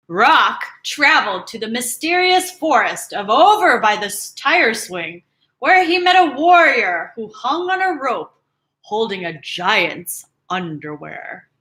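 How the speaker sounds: lively storybook reading; playful tale voice; story narration. A narrator's reading. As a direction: read it like a legend unfolding.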